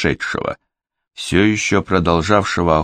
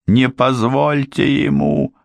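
terrified plea; 9 semitones higher, slower than usual. A narrator's reading.

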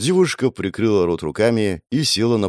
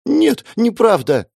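much higher, louder, slow protest; a girl crying out in denial; desperate cry; 5 dB louder, slower than usual. A narrator's reading. Girl protests hurtful accusation. (отчаянный выкрик)

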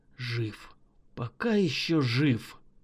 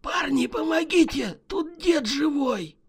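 much higher urgent call from below; 10 semitones higher than usual. Acted. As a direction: shout up from the cellar. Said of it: "он крикнул".

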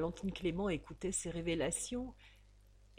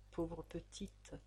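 soft, slow murmur; 9 dB quieter, slower than usual. A narrator's reading. Father kissing his sleeping baby's forehead, soft murmur. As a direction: breathe it tenderly over the baby. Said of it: "murmura-t-il".

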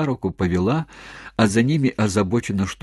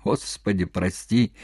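usual speaking voice

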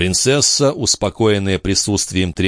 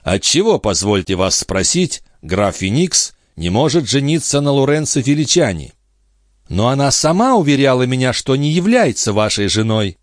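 higher-pitched voice of a challenging princess; indignant princess; 6 semitones higher than usual. A narrator's reading. The princess challenges the count about his marriage, indignant. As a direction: press the objection in a raised, ladylike pitch.

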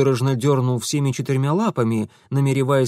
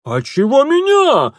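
very high, loud squeal; shrieking shopkeeper; 13 semitones higher, 8 dB louder than usual. A narrator's reading. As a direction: yelp in panic. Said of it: "взвизгнул лавочник". (взвизгнул лавочник)

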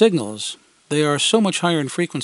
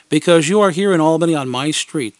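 assuring; 3 semitones higher, 5 dB louder than usual. Retold or imitated. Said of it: "they assured me".

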